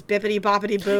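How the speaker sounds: understated, deadpan delivery of a joke. Retold or imitated. Jacob answering that he is magic, deadpan. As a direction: say the silly words with no excitement. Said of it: "In, like, this deadpan voice".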